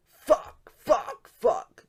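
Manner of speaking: loud breathy mock cursing; intensified cursing. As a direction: spit out each curse harder. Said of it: "His fucks are even more intensified".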